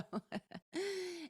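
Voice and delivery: soft breathy laugh; a short soft chuckle; light laugh. Real, not acted. Laughing at her own story.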